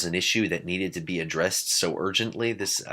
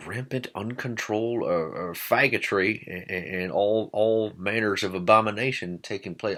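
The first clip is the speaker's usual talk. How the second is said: put-on upper Midwest accent. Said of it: "I don't know why I'm using that accent".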